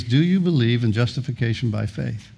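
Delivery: deliberate, measured questioning; pointed question. Retold or imitated. Angel supervisor questioning the thief in heaven, pointedly. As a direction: put it pointedly, word by word. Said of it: "he's very pointedly".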